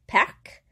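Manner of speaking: PARC with an audible K at the end; final C pronounced. Shown as a demonstration. French teacher showing that the C is heard, final C pronounced. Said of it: "so there's the C".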